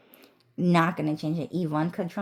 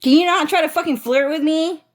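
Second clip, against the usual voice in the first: scoffing. Retold or imitated. Ju Sun scoffing at the speaker, disgusted. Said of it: "he scoffed at me".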